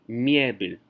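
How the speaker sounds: мебель drawn out slowly, weight on the first syllable; front-syllable stress. Shown as a demonstration. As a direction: stress the MYE of "мебель", reduce the ending. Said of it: "the stress is on the front part".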